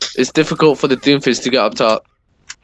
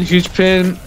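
urgent higher-pitched callouts; combat callout; 4 semitones higher than usual. Real, not acted. Urgent teammate health callouts mid-fight.

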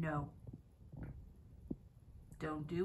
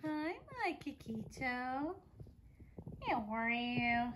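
tender greeting; slower than usual. Real, not acted. Owner greeting her calm bird, slow baby talk. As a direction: draw out a sweet hello to the pet.

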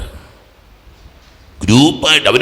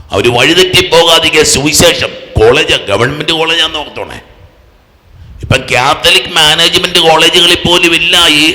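raised, higher preaching voice; impassioned preaching; 6 semitones higher, 5 dB louder than usual. Real, not acted. Preacher laments the youth groups gone from campuses, impassioned preaching. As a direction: preach it out with urgency.

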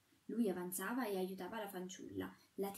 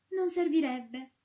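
retort; 6 semitones higher, 10 dB louder, slower than usual. A narrator's reading. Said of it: "ribatté lei".

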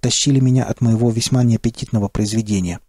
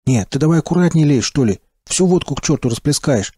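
buzzing drone; 2 semitones higher than usual. Acted. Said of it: "прожужжал первый голос".

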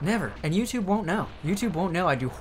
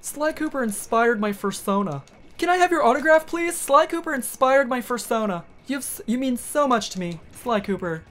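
gushing fan; 8 semitones higher, 3 dB louder than usual. Retold or imitated. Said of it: "they're signing fursuits at FurCon".

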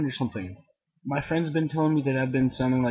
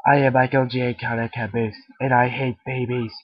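Caboose impression; 4 dB louder than usual. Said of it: "here we go".

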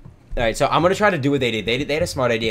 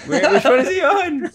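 shrill question; 6 dB louder, slower than usual. Real, not acted. Frantic search, high shrill.

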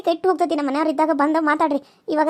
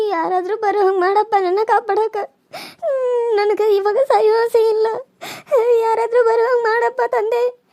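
tearful prayer; 3 semitones higher than usual. Acted. Tearful prayer to God for rescue.

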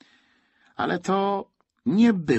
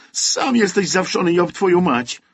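put-on high, loud child's cursing; shouting; 8 semitones higher, 6 dB louder than usual. A narrator's reading. Boy swears at the soldier who calls his teddy lice-ridden, shouting. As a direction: hurl the insult in a boy's raised voice. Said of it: "krzyczał chłopiec".

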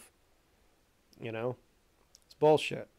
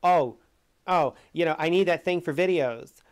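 mock whiny excuse, louder; mocking the turtle guy's whiny excuse; mocking whine; 2 semitones higher, 5 dB louder than usual. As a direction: sneer his excuse back at him. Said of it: "his excuse for it was so fucking shitty".

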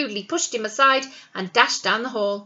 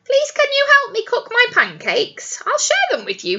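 kindly; 11 semitones higher, 3 dB louder than usual. Acted. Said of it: "he said kindly".

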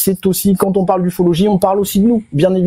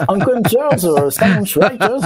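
hammed-up, drawn-out American accent; slow, playful American accent; mock American accent; 3 semitones higher, much slower than usual. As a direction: stretch the English words in a joking American accent. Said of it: "je suis un peu américain".

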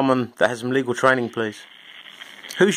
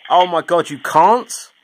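higher, exasperated disbelief; incredulous; 5 semitones higher, 4 dB louder, much slower than usual. Real, not acted. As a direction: throw it back as an astonished question. Mock disbelief at caller's refusal.

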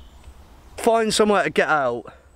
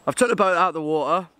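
breathless and quick; panting through the words; out of breath; faster than usual. Real, not acted. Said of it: "still a bit out of breath".

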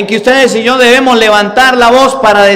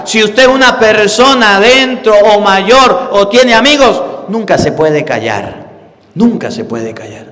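ordinary talk

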